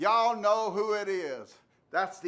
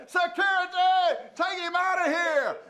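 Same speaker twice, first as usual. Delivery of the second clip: hammed-up chaos; 8 semitones higher than usual. Host hollering about escaped inmates in the cave, hammed up. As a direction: rant about the madhouse, overplayed.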